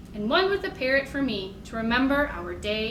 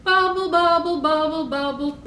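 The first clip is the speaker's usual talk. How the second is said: louder, higher bubble, bubble; 4 semitones higher, 5 dB louder than usual. Shown as a demonstration. Librarian making the loud bubble part for kids, higher and louder. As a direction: pop the bubbles out loud and high. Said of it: "making that loud bubble sound".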